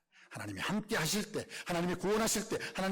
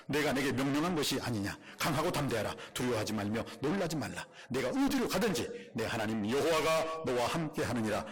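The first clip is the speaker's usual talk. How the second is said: scripture reading. Real, not acted. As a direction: read the verse aloud with authority. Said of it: "받들어 읽겠습니다".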